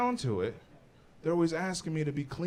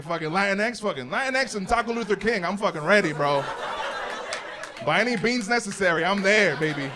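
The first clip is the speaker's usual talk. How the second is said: hyped-up activist rant; 4 semitones higher than usual. Retold or imitated. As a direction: pump yourself up like joining a protest. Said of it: "I was like".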